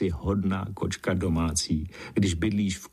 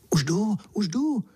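much higher, eager, hurried reply; eager call; 12 semitones higher than usual. Acted. Boy answers the hidden voice eagerly, high call. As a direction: call back with eager curiosity. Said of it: "zvolal jsem horlivě".

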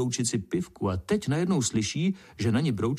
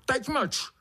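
very high, shrill angry beetle; high angry beetle shouting; 8 semitones higher than usual. A narrator's reading. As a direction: shut him up furiously. Beetle yells at ant.

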